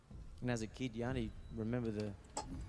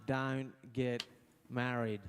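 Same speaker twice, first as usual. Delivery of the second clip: put-on drunk dad advice; much slower than usual. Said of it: "half pissed going".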